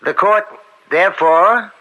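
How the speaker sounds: measured, formal verdict delivered from the bench; formal court ruling. Acted. Judge announcing his verdict to the court, formally. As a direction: pronounce the ruling with weight.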